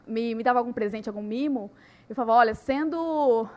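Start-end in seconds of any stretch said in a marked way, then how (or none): 2.4-3.5 mock victim of a doting husband; ironic mock complaint. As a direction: pretend to be oppressed, tongue in cheek.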